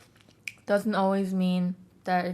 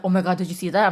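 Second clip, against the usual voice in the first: louder, alarmed roommate voice; excited roommate; 6 dB louder, faster than usual. Retold or imitated. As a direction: blurt it out like he just saw something. Roommate rushes out during storm.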